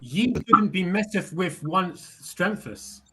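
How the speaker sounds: slow, lightly pompous archaic line; mock old English. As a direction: speak like a pretend knight. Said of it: "Thou, thou".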